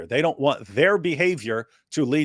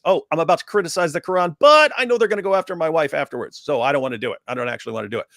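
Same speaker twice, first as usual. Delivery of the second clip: mock inner voice; 3 semitones higher, faster than usual. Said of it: "you want it to be in our heads".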